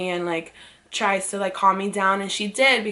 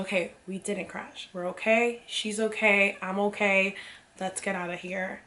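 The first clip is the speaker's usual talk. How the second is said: quiet self-reassurance; 7 dB quieter than usual. Retold or imitated. Calming herself after panic.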